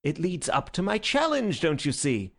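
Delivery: high, bright eager explanation; beaming. Acted. Syme explaining his plan to the doctor, beaming and high. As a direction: sell it with a grin.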